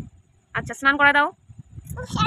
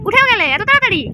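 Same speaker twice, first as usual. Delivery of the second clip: mock surprise; 6 semitones higher, 6 dB louder than usual. Doll woke up too soon.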